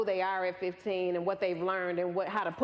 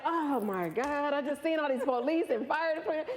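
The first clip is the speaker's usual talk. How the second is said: mock shock; 7 semitones higher than usual. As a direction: imitate an overwrought uncle. Retells uncle's shock at crash scene.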